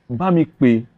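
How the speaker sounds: complaining boss in Yoruba. Retold or imitated. Creative director asking staff to call for him, complaining. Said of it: "he speak Yoruba".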